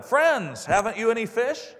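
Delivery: high, loud hail across the water; calling out. A narrator's reading. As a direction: call out to friends from the shore. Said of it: "He called out to them".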